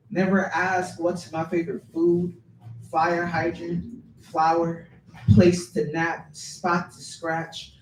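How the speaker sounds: projected opening easing into measured questions; spoken-word poem. Acted. Poet voices a misjudged pit bull, performed poem reading. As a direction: recite it phrase by phrase, driving each question.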